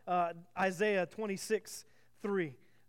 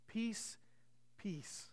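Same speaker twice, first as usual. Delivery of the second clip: softer each time, letting peace fade away; hushed repetition; 11 dB quieter than usual. Acted. Preacher to his congregation, savoring the word, hushed and fading. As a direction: breathe the word peace out, then barely say it again.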